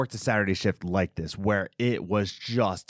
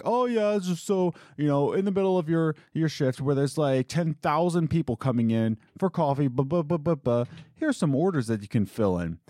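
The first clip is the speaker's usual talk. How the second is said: higher, fast mock boss chatter; mocking the owner; 5 semitones higher than usual. Mocking the owner's careless rattling about orders. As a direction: parody his careless rattling on. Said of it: "just being like".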